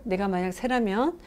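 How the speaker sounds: usual speaking voice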